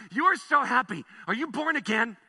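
loud evangelist-style pitch; Billy Graham. Retold or imitated. Preacher imitates his friend questioning a Starbucks worker, evangelist style. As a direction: put it to him like a revival preacher. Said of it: "You went Billy Graham on him".

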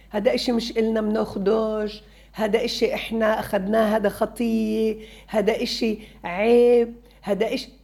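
scolding. Shown as a demonstration. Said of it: "بدون ما تقولي له".

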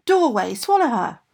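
commanding shout. Acted. Ogress orders doorway to swallow girl, commanding shout. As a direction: call out the command forcefully.

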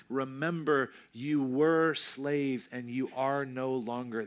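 were leaned on, slow and deliberate; slow it down and weigh were; stress on were. Shown as a demonstration. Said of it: "the emphasis was in a different spot".

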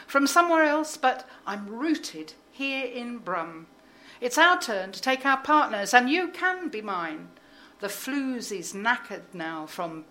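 lively, rhythmic poem performance with playful voices; poem recital. Acted. Poet reciting her dance poem to the audience. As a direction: perform the poem with relish and swing.

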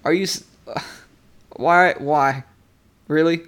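mildly exasperated, with a sigh; broken, half-hearted complaint, trailing down; petty. Acted. Imagining himself woken by the disciples, mildly petty. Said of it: "so, like, petty about it".

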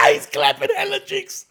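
high, loud, squealing with laughter; cracking up. Real, not acted. Host joking about the sponsor during the clap test, cracking up. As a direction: barely get it out through laughter.

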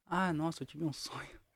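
hushed, grand speech voice; Martin Luther King. Retold or imitated. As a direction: intone it like a famous speech. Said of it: "Você é o Martin Luther King".

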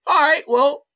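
high breezy "whatever" tone; casual shrug. Retold or imitated. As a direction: shrug it off, then firm up. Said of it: "I was kind of like".

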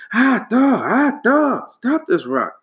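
high, loud yelps then a plea; pained cry. A narrator's reading. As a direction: yelp as the rock bounces off his head. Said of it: "cried the king".

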